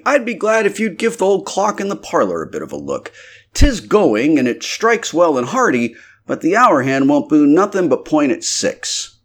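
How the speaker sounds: high, eager innkeeper's wife; landlady voice. A narrator's reading. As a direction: pitch her up as the fussing landlady.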